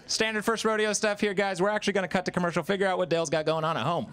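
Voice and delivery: a hint of sportscaster patter; rodeo announcer. Announcer covering for crying Dale before commercial, light announcer patter. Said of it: "where the announcer's like".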